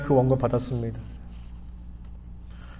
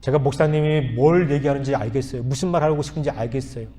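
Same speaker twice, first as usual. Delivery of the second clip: calm request; 2 semitones lower, 4 dB quieter than usual. Retold or imitated. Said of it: "제가 아주 차분하게 얘기했습니다".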